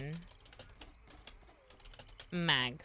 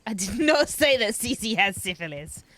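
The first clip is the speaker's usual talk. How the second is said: laughing through the denial; real laugh breaking into the words; giggling protest, louder; 3 semitones higher, 7 dB louder than usual. Real, not acted. Repeats denial while laughing.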